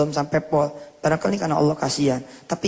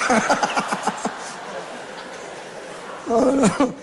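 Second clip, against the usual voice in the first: breathy laugh; 7 semitones higher than usual. Real, not acted. Preacher laughs at the story.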